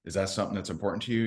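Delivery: straight-faced question. Retold or imitated. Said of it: "I had to keep a straight face".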